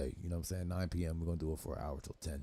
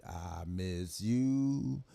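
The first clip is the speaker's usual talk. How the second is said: mock sad whine; much slower than usual. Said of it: "Now she".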